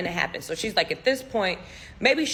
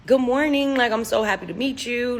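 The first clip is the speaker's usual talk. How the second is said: raised pitch on a retold hello; cheery greeting; 4 semitones higher than usual. Friend meeting the little boy, imitated cheery greeting. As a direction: greet him brightly, easing off after.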